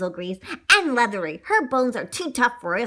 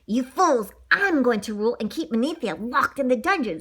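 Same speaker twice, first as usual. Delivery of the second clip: scolding; 2 semitones higher than usual. Acted. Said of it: "Striker scolded them".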